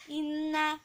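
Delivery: "Inna" on a level note, short ending; jangan panjang. Shown as a demonstration. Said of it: "jangan panjang ya". ("Inna" dengan akhiran pendek)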